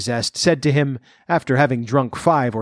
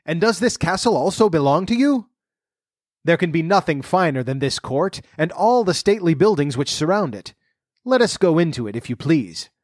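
high, admiring royal voice; a hint of a delighted king; lightly voiced king; 5 semitones higher than usual.

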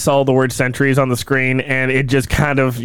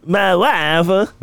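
Borat impression; 5 semitones higher than usual. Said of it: "A little bit Borat-y".

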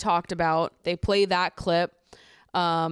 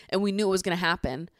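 ordinary talk

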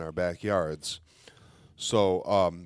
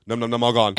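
lightly voiced toddler munching; a hint of baby talk, slightly louder; 3 semitones higher, 5 dB louder, faster than usual. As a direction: imitate a baby happily finishing candy. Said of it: "and Kyle goes".

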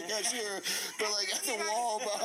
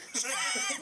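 screeching tires; 7 semitones higher than usual. Retold or imitated. Imitates car tearing off.

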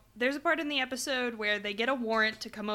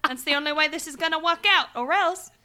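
loud, higher-pitched hammed-up British accent; mock British accent; 5 semitones higher, 8 dB louder, faster than usual. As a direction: threaten as a badly faked British villain. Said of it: "Why did you turn to Irish or Scottish".

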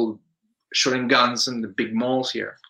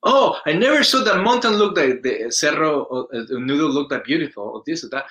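awed; 3 semitones higher, 3 dB louder than usual. Retold or imitated. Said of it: "I was like".

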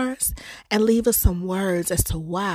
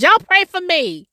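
laughing plea; 10 semitones higher, 5 dB louder than usual. Real, not acted. Jokes after coughing fit.

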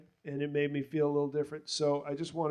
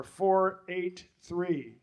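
slow announcement; 2 semitones higher, much slower than usual. Real, not acted. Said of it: "reads the ticket numbers".

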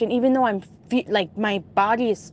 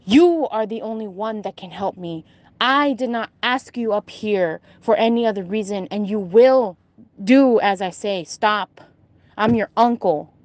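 angry uncle. Retold or imitated. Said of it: "he gets very angry".

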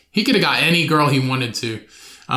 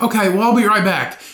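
put-on girly voice; 5 semitones higher than usual. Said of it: "And they're like".

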